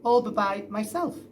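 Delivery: put-on a boy proudly answering his dad. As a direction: say it puffed up with pride. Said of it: "James said proudly".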